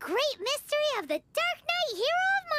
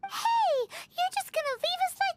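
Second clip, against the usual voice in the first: indignant shout; 6 semitones higher than usual. Acted. Paimon protesting as Diluc leaves them, high and indignant. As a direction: call him back, outraged.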